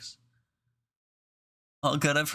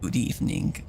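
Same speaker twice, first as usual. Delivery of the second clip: whispering; 7 semitones lower than usual. Real, not acted. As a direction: whisper it so nobody wakes. You have to talk quietly.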